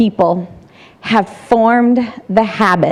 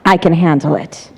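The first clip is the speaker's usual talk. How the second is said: calm reply; 6 semitones lower than usual. Acted. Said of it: "I come back with".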